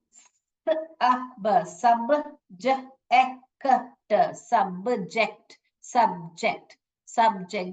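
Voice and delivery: "सब्जेक्ट" built letter by letter, then said whole; sounding out letters. Shown as a demonstration. Teacher blending "सब्जेक्ट" sound by sound for the class. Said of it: "देखिए जोड़ के पढ़ना आ रहा है".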